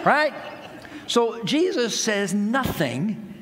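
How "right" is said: knowing right. Real, not acted. Asking congregation to agree.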